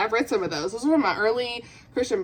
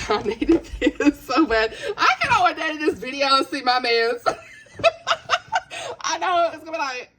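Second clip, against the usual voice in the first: tearful giggling, pitched up; laughing through tears; 6 semitones higher than usual. Real, not acted. Vlogger laughing at their own mess, tearful. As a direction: break into high laughter while choked up. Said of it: "through my tears".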